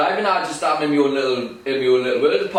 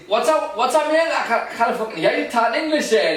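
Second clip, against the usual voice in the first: mock deaf taunt; 6 semitones higher than usual. Mocking driver at traffic light.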